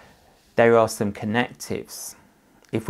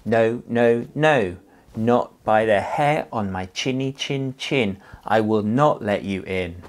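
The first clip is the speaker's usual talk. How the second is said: louder defiant refusal; defiant pig; 3 dB louder than usual. Acted. Second pig refusing the wolf, louder.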